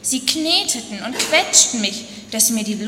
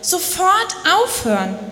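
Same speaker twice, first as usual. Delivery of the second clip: higher mock scream; 6 semitones higher than usual. A narrator's reading. Clay screaming at the potter, mildly acted. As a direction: cry out again, pleading. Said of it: "Und wieder schrie ich".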